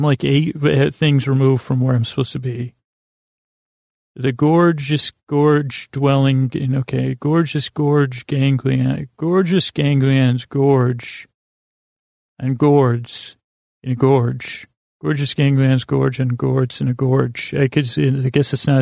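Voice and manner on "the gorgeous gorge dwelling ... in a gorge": slow, drawn-out tongue twister with pauses; tongue twister attempt. Shown as a demonstration. Host testing a tongue twister for listeners, slow and deliberate. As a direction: feel out each word of the twister slowly. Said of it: "trying to do a tongue twister".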